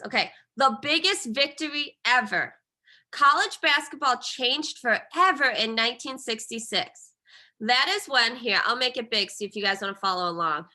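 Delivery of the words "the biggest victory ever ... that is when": teacher reading a passage aloud to her class in her best reading voice. Shown as a demonstration. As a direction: clear read-aloud voice for the class. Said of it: "I'm gonna try to read this in my best reading voice".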